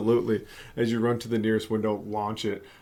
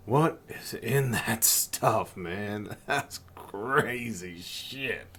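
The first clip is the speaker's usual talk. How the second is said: stoned drawl; much slower than usual. Acted. GM as stoned stranger, slow.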